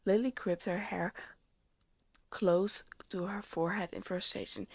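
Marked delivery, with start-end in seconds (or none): none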